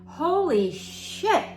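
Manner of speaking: a surprised laugh drawn out at her own mess. Real, not acted. Tarot reader laughing at her fumbling, half amused.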